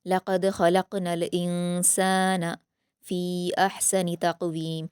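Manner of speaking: slow, careful Quranic reading; slow recited verse; tajweed recitation. Shown as a demonstration. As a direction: draw the verse out slowly. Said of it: "जल्द पढ़ेंगे".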